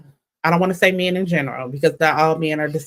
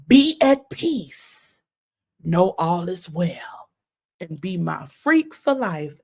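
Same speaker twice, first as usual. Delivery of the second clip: mock soothing lover; slower than usual. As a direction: croon it like a creepy preacher. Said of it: "I could see him talking like this".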